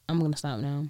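normal talking voice

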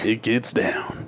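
slow hushed whisper. Acted. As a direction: draw it out in a secret whisper. Hyping up Flag Day in West Palm.

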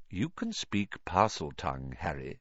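put-on soft, calm old wizard. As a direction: settle the boy gently. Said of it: "said Dumbledore calmly".

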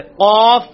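قاف from the back of the throat, loud; heavy uvular ق in قاف; deep qaaf. Shown as a demonstration. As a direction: hit the ق deep at the back palate. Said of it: "ابھی آپ practice کریں".

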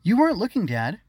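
starts high and loud, then drops; calling out. A narrator's reading. Girl to her father at breakfast, calling out. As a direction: call for Dad's attention. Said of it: "Harmony called to her father".

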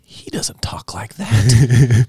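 high-pitched, drawn-out mock astonishment; acted disbelief. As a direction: react in stunned disbelief, voice climbing high. Acting out own astonished reaction.

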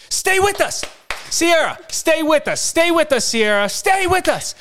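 high-pitched, loud imitation of panicked nurses; urgent yelling. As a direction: cry out to keep someone conscious. Imitating nurses yelling to revive wife.

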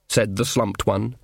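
plain reading voice

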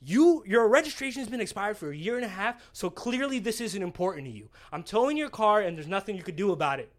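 lightly acted unyielding officer; stern cop. Officer refusing a pleading driver, mildly stern retold scolding. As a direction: lay down the law with hard emphasis.

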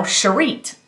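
imitating her accented pronunciation of Cherit; a lightly imitated accent on "Cherit"; foreign accent. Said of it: "like, with an accent".

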